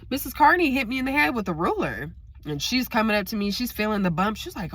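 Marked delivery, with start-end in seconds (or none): 0.1-2.1 put-on little girl voice. Child telling mom about teacher.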